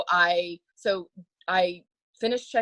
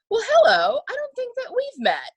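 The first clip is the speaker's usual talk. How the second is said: imitating Bill Clinton; 3 dB louder than usual. Bill Clinton greeting the actress, lightly imitated and charming. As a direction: ham up a smooth southern greeting. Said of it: "he goes".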